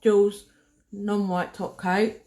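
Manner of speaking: name it around the brush in your teeth; mouth full. Real, not acted. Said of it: "Take the brush out my mouth".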